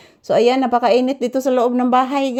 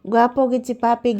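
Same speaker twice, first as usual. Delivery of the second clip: ordinary talk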